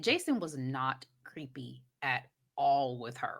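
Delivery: soft, slow unvoiced whisper. Real, not acted. Confiding to a friend about the movie, whispered. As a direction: hush it like a secret. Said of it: "whispered aside".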